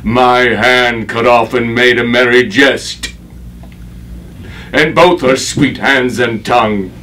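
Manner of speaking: bitter accusation, swelling in volume; rising stage anger. Acted. Avenging father accuses his daughter's attackers, rising anger. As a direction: grief pushing up into anger.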